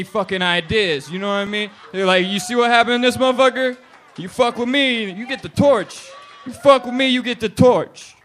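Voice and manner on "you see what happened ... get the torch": high, loud, shouted warning; mock threat. Sleeper warning the new bed as the old one burns, shouted mock threat. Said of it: "get passive aggressive with that motherfucker".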